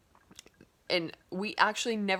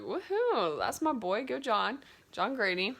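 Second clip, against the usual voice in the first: cheering; 3 semitones higher than usual. Retold or imitated. Cheering for the hero.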